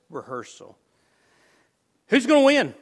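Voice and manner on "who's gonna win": high, loud rallying cry; rousing shout. Acted. Preacher calling out to his congregation, rousing shout. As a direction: fire up the crowd.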